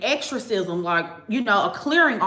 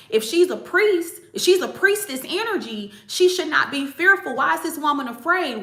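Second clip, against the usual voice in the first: baffled that the priestess is afraid; indignant; 5 semitones higher than usual. Real, not acted. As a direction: press the point in disbelief. Indignant questioning.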